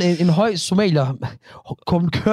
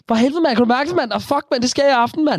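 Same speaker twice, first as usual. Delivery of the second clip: higher Copenhagen street slang with swagger; mock Copenhagen slang; 7 semitones higher than usual. Riling up his co-host, in hammed-up Copenhagen slang. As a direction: overdo the Copenhagen bro talk. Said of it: "gider du godt lade være med det der".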